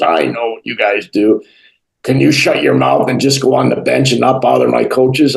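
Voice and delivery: lightly imitated gruff boss; Brian Burke. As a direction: give a hint of a brusque boss giving orders. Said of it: "that's how he talks".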